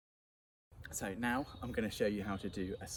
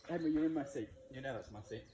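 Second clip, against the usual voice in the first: annoyed; 4 semitones higher, 3 dB louder than usual. Acted. Staged quarrel over seat.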